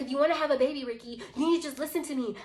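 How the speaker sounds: imitating her snappy, high-pitched insistence; retold snapping, pitched well up. She urges the storyteller to listen, snapping. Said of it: "she starts snapping again".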